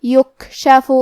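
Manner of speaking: یکشف with a breathy, weak released kaf; یکشف with whispered kaf; kaf with hams. Shown as a demonstration. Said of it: "ہم یہ کلمہ کو ایسے پڑھیں گے".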